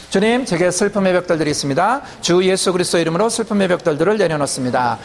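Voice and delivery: steady chant-like prayer recitation; unbroken, evenly intoned prayer cadence; declared prayer. Real, not acted. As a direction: lead a group through formulaic declarations, evenly and firmly. Leads the congregation in declared prayer.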